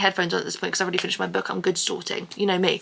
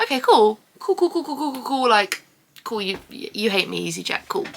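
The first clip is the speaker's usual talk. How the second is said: sarcastic cool; 2 semitones higher than usual. Retold or imitated. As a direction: pretend it's fine, through gritted teeth. Sarcastic cool after wasted money.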